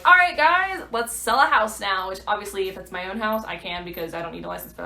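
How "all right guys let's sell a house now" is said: high, loud, then slowed mock cheer to the guys; mock eager announcement. Joking to viewers about selling straight away, mock eager. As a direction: pretend to rush out eager to sell. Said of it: "I can just be like".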